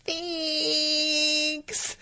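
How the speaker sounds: a high, sweetly smiling "thanks". Retold or imitated. Mother in labor thanks the doctor with a high, sweet smile. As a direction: pay them off with a sugary smile. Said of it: "she just smiles and goes".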